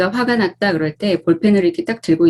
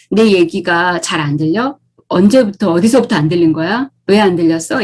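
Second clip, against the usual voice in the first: gentle question. Shown as a demonstration. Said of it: "이렇게 묻는 게 훨씬 더".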